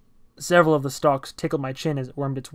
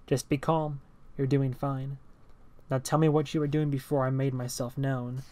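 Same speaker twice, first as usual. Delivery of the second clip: flat robotic speech; 5 dB quieter than usual. Acted. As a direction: speak like a robot, no inflection. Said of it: "He spoke robotically".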